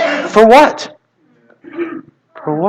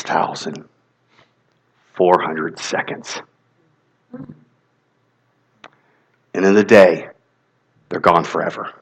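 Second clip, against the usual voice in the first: preacher quieting the room to let it sink in; hushed solemn; 6 semitones lower, 7 dB quieter than usual. Acted. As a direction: drop it down so they lean in. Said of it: "Make sure you hear this".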